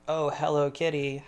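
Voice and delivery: "Oh, hello, kitty." light and easy, tune lifting on hello; casual, offhand greeting to the cat; the right take. Shown as a demonstration. Showing how he greeted the cat, easy and light. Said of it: "Just like".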